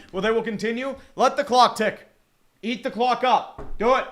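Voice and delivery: steady, lifted football commentary; live play-by-play. Real, not acted. Streamer calling a Vikings handoff and first down, play-by-play. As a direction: follow the run as it happens.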